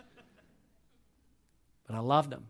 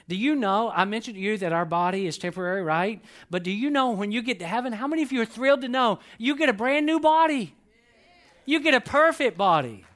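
much higher, louder, thrilled about new bodies; excited preaching; 7 semitones higher, 6 dB louder than usual. Real, not acted. Pastor thrilling his church about perfect new bodies, excited and loud. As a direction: sell the joy of heaven at full voice.

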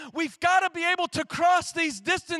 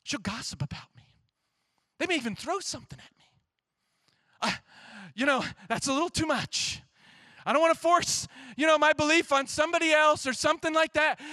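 timid excuses; faster than usual. Retold or imitated. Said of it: "Go and tell your neighbor".

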